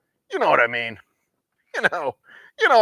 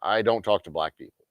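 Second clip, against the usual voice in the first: mock polite racist; 2 semitones lower than usual. Mocking a racist who introduces himself, polite mock voice. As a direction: introduce yourself sweetly as an open bigot. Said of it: "they're like".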